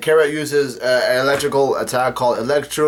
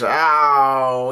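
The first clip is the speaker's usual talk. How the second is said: mock pained "ow", drawn out; half-hearted screech of pain; imitated screech. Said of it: "she yells out a screech".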